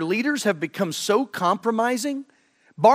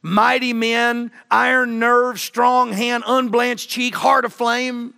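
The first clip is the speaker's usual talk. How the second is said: emphatic preaching; 6 semitones higher, 4 dB louder, slower than usual. Real, not acted. Preacher repeats the words, preaching.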